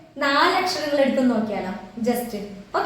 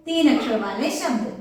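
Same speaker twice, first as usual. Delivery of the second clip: slow Hindi phrase demo; 3 semitones lower than usual. Shown as a demonstration.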